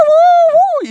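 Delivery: high, loud whooping on the drop; thrilled whoop. Retold or imitated. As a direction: whoop like a coaster rider. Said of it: "And I'm like".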